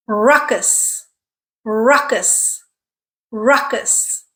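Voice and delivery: "Ruckus" with stress on the first syllable, RUCK-us; careful model "Ruckus", strong uh first, weak ending; stressed syllable drill. Shown as a demonstration. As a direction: say "Ruckus" alone, RUCK-us, for learners to copy. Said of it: "What syllable is stressed?".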